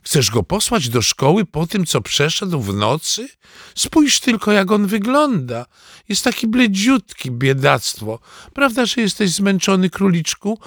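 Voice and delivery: put-on high, doting old grandma voice; fussing grandma. Grandma fussing over her grandson, high and doting. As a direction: coo over the poor pale boy. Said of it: "zawołała Bunia".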